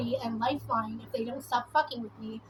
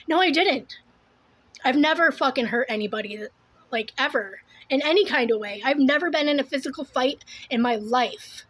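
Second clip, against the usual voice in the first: insistent, louder protest; heated denial; 5 dB louder than usual. Real, not acted. Woman denying she ever hurt anybody, heated. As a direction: push back hard on the accusation.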